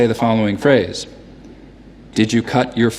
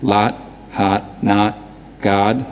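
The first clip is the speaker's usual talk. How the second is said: New York open, fronted vowel in each word; unrounded New York "ah" vowel; New York accent; 2 semitones lower, much slower than usual. Shown as a demonstration. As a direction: say them like a New Yorker, lips unrounded. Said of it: "no lip rounding in a New York accent".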